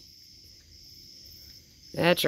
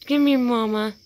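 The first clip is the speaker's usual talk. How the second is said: imitating the call; 7 semitones higher, 4 dB louder than usual. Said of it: "I kept hearing that night".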